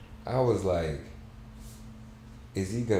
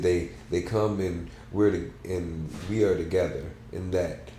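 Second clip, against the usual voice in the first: story narration. A narrator's reading. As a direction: read it like a reflective novel. Reads a novel aloud.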